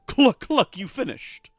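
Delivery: a startled hen announcing; squawking chicken. Acted. Chicken voice jumps high.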